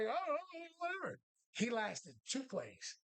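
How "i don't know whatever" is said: careless shrug. Retold or imitated. Shrugging off fans from bench.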